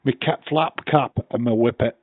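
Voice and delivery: lightly done Yorkshire demonstration; Yorkshire accent. Shown as a demonstration. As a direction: put on Yorkshire, understated. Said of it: "I dare you to do Yorkshire".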